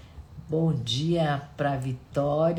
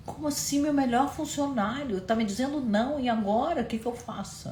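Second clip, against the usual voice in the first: a higher, agitated voice for the confused boss; baffled boss; 9 semitones higher than usual. Retold or imitated. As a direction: play the lost, restless employer. The baffled boss's inner voice. (patrão perplexo e inquieto, voz mais aguda)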